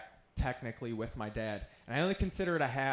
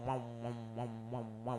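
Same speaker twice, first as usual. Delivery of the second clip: warbling wow sound; 10 dB quieter, faster than usual. Retold or imitated. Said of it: "all the sound in the world started going".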